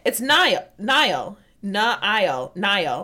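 NILE said as "NY-ul", repeated slowly; pronunciation demo. Shown as a demonstration. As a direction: sound out Nile carefully as "NY-ul". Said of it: "how you're supposed to say it".

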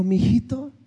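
slow, lightly voiced fatherly God; a mild, unhurried voice of God, lightly done; God speaking. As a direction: gently correct him like a father. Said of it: "Me dijo".

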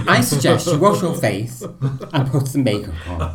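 high, prim quoting of the nanny. Retold or imitated. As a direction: say it like a stiff proper nanny. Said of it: "I was like".

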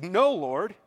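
forceful quoted objection; emphatic refusal. Retold or imitated. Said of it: "It's the same way that Peter said".

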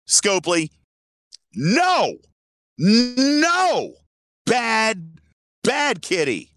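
high scolding like to a naughty cat; scolding a pet. Acted. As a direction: say it like you're scolding a bad kitty. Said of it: "I'm not even trying to be funny".

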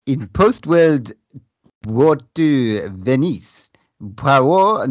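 hammed-up French accent, slow; slow mock French detective accent. Shown as a demonstration. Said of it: "do this in a French accent".

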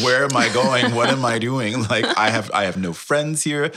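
loud, nervous laughing panic; panicked laughing. Retold or imitated. Retelling being stranded abroad to the host, laughing panic.

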